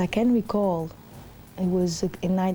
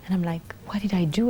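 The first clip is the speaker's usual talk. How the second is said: whisper. Retold or imitated. Her silent thoughts at dinner.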